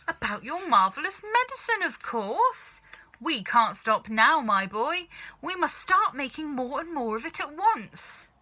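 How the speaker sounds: high, loud, eager dad voice; bursting with excitement over the medicine; father gushing about the marvellous medicine; excited father. A narrator's reading. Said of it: "father bursting with excitement".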